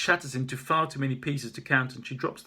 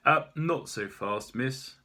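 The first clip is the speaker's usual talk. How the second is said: firm officer; 3 semitones higher, 4 dB louder, slower than usual. Acted. Officer stopping her, slow.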